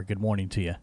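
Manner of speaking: ordinary delivery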